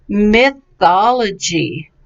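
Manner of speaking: slow "mythology", stress on THOL; careful pronunciation. Shown as a demonstration. Teacher models a troublesome word, careful pronunciation. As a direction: say "mythology" slowly and evenly. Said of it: "people had trouble with last class".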